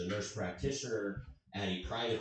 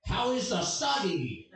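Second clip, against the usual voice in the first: slow, higher-pitched mock Asian accent; 8 semitones higher, 3 dB louder than usual. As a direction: exaggerate an Asian accent, drawn out and high. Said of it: "repeated it in an accent".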